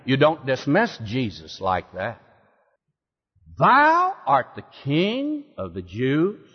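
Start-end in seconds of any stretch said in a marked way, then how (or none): 3.6-6.5 slow, scornful, stress on "Thou"; biting sarcasm. Acted. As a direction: sneer the line with contempt. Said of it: "he said that with biting sarcasm and with scorn".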